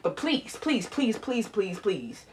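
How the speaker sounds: begging her mother quietly; repeated soft pleading. Real, not acted.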